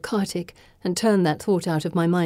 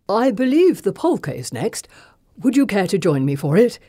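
begging; 3 semitones higher, 4 dB louder than usual. Acted. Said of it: "it sounds like begging".

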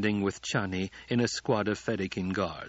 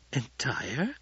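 shocked; 3 semitones higher than usual. A narrator's reading. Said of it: "She was shocked, almost speechless".

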